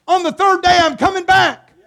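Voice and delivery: loud triumphant Jesus; triumphant promise. Retold or imitated. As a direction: proclaim it like a victory. Preacher voicing Jesus' promise.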